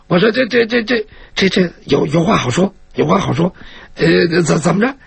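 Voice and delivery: lightly nervous, stumbling over repeated words; flustered stammer. Acted. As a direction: stammer as you try to placate them. Flustered captive pleading at sword point. (略带慌张，结结巴巴地求饶)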